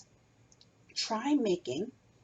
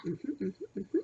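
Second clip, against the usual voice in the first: silly hums; 3 dB quieter, slower than usual. Shown as a demonstration. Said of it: "Let's do something silly like that".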